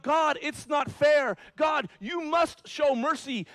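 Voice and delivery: high, loud, slow pleading protest; hammed-up demand for fairness; mock crying out. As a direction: act out a whiny plea to God. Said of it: "If you start crying out".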